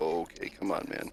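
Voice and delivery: mock muttering under breath. Showing how they react instead of saying liar out loud, acting out a mumbled sigh. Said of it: "I just kind of mumble it under my breath. Just a kind of a heavy sigh".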